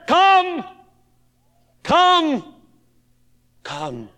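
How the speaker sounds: high and loud, then dropped to near silence; preacher repeating the Lord's favourite word; fading come. Acted. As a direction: call it twice, then let it die away.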